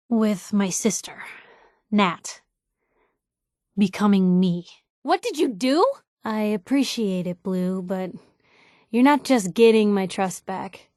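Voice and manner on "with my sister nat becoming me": whispered, slow confession; whispered worry about her sister; hushed admission. Acted. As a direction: drop to a whisper as if it's hard to say.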